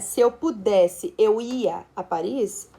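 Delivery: slow, deliberate reading of the wrong sentence; slow wrong example. Shown as a demonstration. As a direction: spell out the mistaken sentence slowly. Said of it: "estrutura inadequada".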